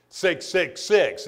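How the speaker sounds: very slow, each six spaced out; ominous number. Acted. Preacher teasing the congregation about the beast, slow and ominous. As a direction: draw it out like a warning.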